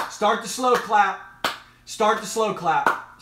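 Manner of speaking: rallying cheer. Real, not acted. Cheering on someone walking.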